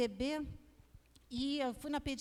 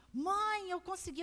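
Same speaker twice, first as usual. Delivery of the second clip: higher-pitched, lightly acted child's triumph; excited boy; 5 semitones higher than usual. Son telling mother he rode the bike, lightly excited. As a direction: call to mum proudly, lightly childlike.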